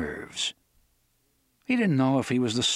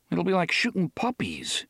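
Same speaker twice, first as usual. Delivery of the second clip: a gloomy inner grumble; glum; 7 semitones higher than usual. A narrator's reading. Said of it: "he thought glumly".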